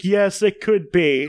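slow, tearful agreement; teary. Retold or imitated. Host voices himself tearing up at the kid, slow and teary. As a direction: sound close to crying. Voicing self moved to tears.

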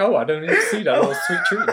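fast, high and laughing through it; high giggly cutesy voice. Pretend. Acting out a popcorn eater in a high laughing voice. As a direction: gush like you just found candy. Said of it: "It's like".

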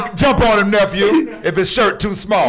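loud, high egging-on shout, last words half sung; loud hype shout; hyped yell. Retold or imitated. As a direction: fire up the crowd with a loud call and trail into a tune. Egging on a fight, retold.

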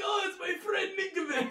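put-on high, gleeful Russian accent; joking Russian accent. Fan greeting his favourite player's sack, Russian accent. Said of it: "The Willie Nick Russian accent is elite".

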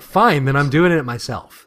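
retold defiant retort. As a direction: fire it back stubbornly.

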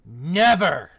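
one huge loud roar; thundering. Acted. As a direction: thunder the word like a giant. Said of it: "he thundered".

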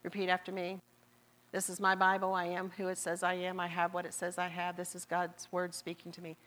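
quick, level congregational recitation; imitating a rote group confession, all on one note; recited confession. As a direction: rattle off a creed learned by rote. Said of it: "Pastor has us do that confession".

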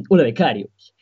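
sports talk show host voice, straight face; composed TV host greeting; Josep Pedrerol impression. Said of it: "Has imitado de puta madre".

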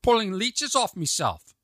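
comic Irish accent demo; lively mock-Irish delivery. Shown as a demonstration. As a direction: repeat it in a put-on Irish accent. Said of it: "isn't a perfect Irish accent".

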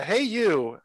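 lightly imitating a cute hello; mocking the cute opening line; cute greeting. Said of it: "It was, like, a cute".

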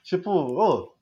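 calm outsider advice. Retold or imitated. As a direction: talk him down like mom would.

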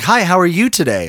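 lightly voiced cheery counter girl; friendly cashier. Imitates a nice McDonald's cashier.

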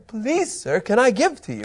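a hint of a polite beggar, rising on please; pleading voice. Preacher acts out asking to give, lightly pleading voice. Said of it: "you wanna try that voice".

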